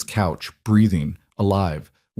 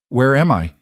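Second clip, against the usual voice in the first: halting and a little higher, dazed; a first confused whisper of a question; 4 semitones higher, 3 dB louder than usual. A narrator's reading. Stranger first asks Jack where she is, dazed. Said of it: "in a voice that made every hair".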